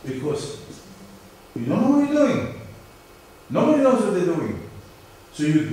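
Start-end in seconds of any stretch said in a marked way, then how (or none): 1.5-4.7 emphatic. Real, not acted. Lecturer stressing the unknown.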